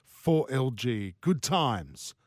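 slow, drawn-out radio read; slowing, softening voiceover voice; professional voiceover. Pretend. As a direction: stretch it out like a smooth station ident. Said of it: "doing my professional voiceover thing".

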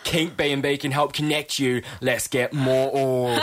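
hammed-up Cockney, dragging out the ending; mock Cockney, slow drawn-out finish; dirtier Cockney. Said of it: "Nah, go more dirty".

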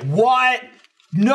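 high, loud shocked cry. Retold or imitated. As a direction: gasp it out in disbelief. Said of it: "one of those like".

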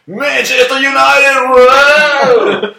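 high, slow, loud football yell; drunk crowd shout. Retold or imitated. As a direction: bellow it like a drunk fan. Drunk guests shouting chant.

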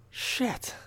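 breathless whispered shit, under the breath; whispered curse. Retold or imitated. Patient alone after the dentist leaves, whispering dread. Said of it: "I'm thinking to myself".

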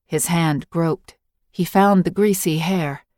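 ordinary delivery

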